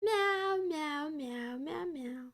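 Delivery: playful high meowing; nervous cat voice. Pretend. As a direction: meow like a restless kitten. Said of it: "Sorry, I'm being annoying".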